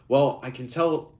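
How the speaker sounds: a stab at a Birmingham lilt; hint of Birmingham accent. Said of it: "do I have to do a Birmingham accent again?".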